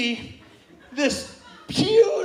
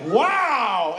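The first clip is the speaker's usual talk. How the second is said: mock amazed wow; 3 dB louder than usual. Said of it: "he's like".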